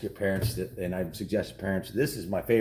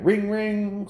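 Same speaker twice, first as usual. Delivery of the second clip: high, loud mock ringing; a sharp, jarring ring, ring; phone ring imitation; 10 semitones higher, 6 dB louder than usual. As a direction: ring it out like a telephone bell.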